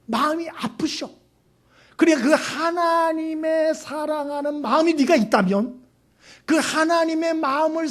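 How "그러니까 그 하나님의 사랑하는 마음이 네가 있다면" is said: usual speaking voice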